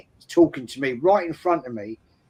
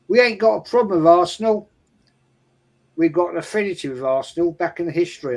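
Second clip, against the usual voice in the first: quick, higher-pitched imitated fan; rival fan's reassurance; 4 semitones higher, faster than usual. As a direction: rattle it off as the other man talking. Rival fan reassuring him, retold.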